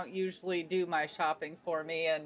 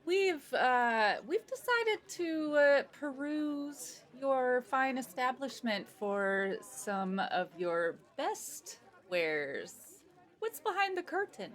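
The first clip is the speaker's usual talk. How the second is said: noble lady; 5 semitones higher, slower than usual. Acted. Player speaks as Lady Rosalind.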